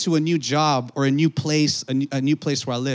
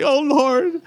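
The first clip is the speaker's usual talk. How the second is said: high mock exasperated "Oh, Lord"; mock groan; 10 semitones higher, 4 dB louder than usual. Coworker mocking churchgoers, high exasperated. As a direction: sigh it like a sarcastic coworker.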